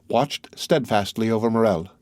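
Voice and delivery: ordinary delivery, nothing marked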